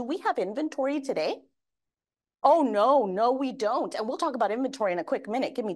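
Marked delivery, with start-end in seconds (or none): 2.5-3.3 loud, exaggerated "Oh, no" to the crowd; emphatic oh no. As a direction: play up the denial for the room. Answering her own question to audience.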